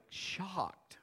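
breathy hushed word; whisper. Real, not acted. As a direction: drop to a whisper on it. Whispered for effect.

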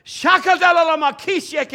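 high, loud prayer in tongues; shouted tongues. Retold or imitated. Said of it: "she's going".

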